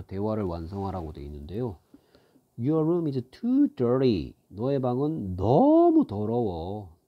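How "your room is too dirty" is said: slow model reading. Shown as a demonstration. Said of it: "teacher models English line".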